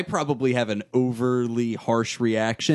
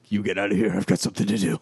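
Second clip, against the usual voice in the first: lightly voiced Mac; 5 semitones lower, much faster than usual. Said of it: "Mac's just like".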